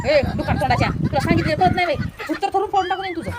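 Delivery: loud, insulting scold; angry yelling. Acted. Sister-in-law shouting abuse at the boy, loud angry scolding. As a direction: snap at him at full volume. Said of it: "माझ्या पुढी लई जोरात बोलायलीस".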